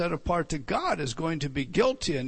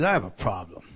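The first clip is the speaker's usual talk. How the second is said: God's voice; 8 semitones lower than usual. Acted. Voicing God's complaint.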